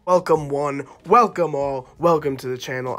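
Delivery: loud hype intro. Real, not acted. Channel intro greeting to viewers.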